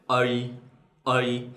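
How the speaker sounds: "A" said northern style; northern vowel. Shown as a demonstration. Teacher demoing the northern vowel sound. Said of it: "They pronounce like this".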